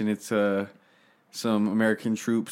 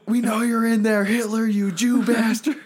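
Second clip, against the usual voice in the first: arrogant soldier; 10 semitones higher than usual. Retold or imitated. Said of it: "he's like".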